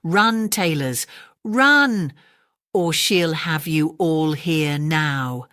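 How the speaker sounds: urgent little mouse cry; urgent squeak. Acted. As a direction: hurry them along. Mice warn the tailors.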